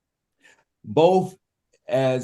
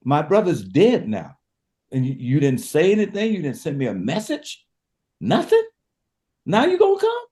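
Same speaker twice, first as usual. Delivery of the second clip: grieving Mary; 3 semitones higher than usual. Retold or imitated. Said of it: "It's like".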